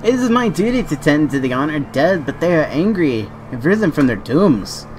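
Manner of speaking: a slight put-on accent for a solemn guardian; lightly accented, grave NPC voice; odd put-on accent. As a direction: read it as a guardian in a strange accent. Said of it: "I don't know why I got that accent".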